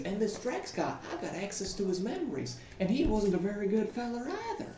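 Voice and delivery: put-on country-folk accent; rambling yarn in a country accent; folksy country accent. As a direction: tell it in a homespun country accent. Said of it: "It's a great accent".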